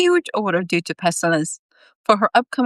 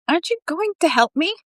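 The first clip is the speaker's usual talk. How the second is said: raised, higher call after him; 10 semitones higher than usual. Acted. Eugene calling after Ford as he walks off, voice raised. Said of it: "Eugene raised his voice".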